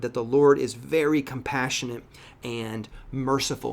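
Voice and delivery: measured reading of the verses, lifted at the start; scripture reading. Acted. Pastor reads James aloud to his church, measured. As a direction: read the Bible passage to the congregation.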